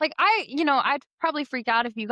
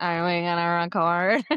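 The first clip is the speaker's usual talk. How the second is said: mock drunk voice, lower pitched; 4 semitones lower than usual. Retelling a video of own drunk self, imitating own drunk voice. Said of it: "my drunk self going".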